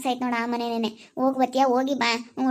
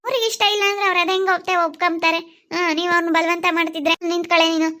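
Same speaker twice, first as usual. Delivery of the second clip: heated pleading; 3 semitones higher, 3 dB louder than usual. Acted. Mother pleads, then scolds loudly.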